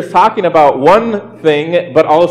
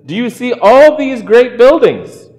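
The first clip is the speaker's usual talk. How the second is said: acted reply; 9 semitones higher, 3 dB louder than usual. Reads Jesus's reply to disciples.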